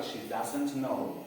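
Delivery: slow English translation example. Shown as a demonstration. Teacher matching English to the Spanish translation, slow. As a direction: say the English slowly and evenly. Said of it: "lo voy a decir despacio".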